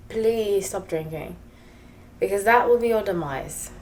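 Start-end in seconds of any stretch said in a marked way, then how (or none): 0.1-1.4 Please stop drinking said slowly, with please drawn out; slow, earnest plea with please leaning forward; pleading. Shown as a demonstration. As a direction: beg them gently to stop drinking. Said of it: "I'm telling you".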